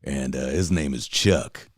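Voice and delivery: put-on slow, soft old smoker's drawl; slow easygoing impression of the old tour driver; old cowboy smoker. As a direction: lightly imitate a laid-back old cowboy. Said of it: "he talks like this".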